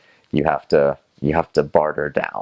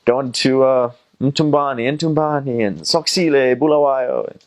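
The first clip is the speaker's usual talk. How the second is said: imitated yelling; 9 semitones higher than usual. Minibus crews shouting their routes, imitated yelling. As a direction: call out the destinations like a tout. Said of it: "these bands just all yelling".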